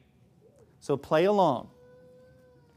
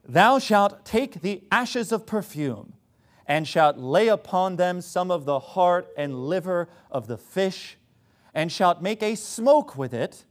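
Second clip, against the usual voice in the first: slow pseudo-intellectual British reading; sarcastically grand British-accented scripture reading; mock British accent. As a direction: read it pompously in a put-on British accent. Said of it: "speaking in kind of a British accent".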